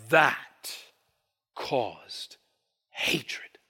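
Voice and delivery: dropped to a breathy hush. Real, not acted. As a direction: let it fall to almost a whisper. Hushed emphasis.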